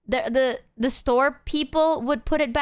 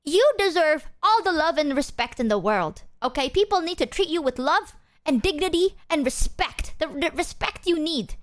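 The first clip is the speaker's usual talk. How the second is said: higher-pitched, emphatic friend impression; earnest, raised-pitch imitation of a protective pal; Mouse; 4 semitones higher than usual. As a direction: mimic your friend insisting on your worth. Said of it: "this is literally Mouse".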